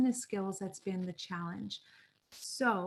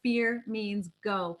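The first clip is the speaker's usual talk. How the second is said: slow, deliberate; much slower than usual. Shown as a demonstration.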